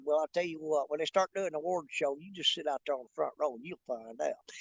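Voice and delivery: put-on low, soft country hick accent; put-on country hick talk. Sly reply to elevator stranger, low put-on country hick accent. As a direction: drop low and quiet, putting on a country hick voice. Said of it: "started talking like that right there".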